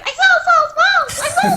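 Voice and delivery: squeaky high chipmunk voice, laughing. Retold or imitated. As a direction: shriek it up high like a cartoon chipmunk. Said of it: "like, a little chipmunk voice".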